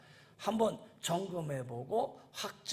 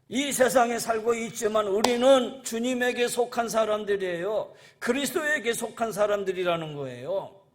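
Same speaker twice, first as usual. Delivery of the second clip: raised, emphatic pulpit voice; preaching; 5 semitones higher, 7 dB louder than usual. Real, not acted. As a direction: declare it firmly to the congregation. Preaches at full force.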